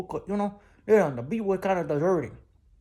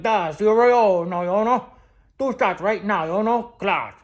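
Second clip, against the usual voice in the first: loud, cocky retelling of the order; swaggering boast; 2 semitones higher, 5 dB louder, slower than usual. Retold or imitated. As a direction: crow about the shots. Boasting about ordering shots.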